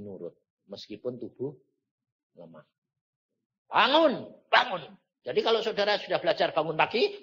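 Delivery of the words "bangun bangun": loud, high, urgent call; wake-up call. Retold or imitated. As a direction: call out to rouse a sleeper. Calling a sleeper to wake.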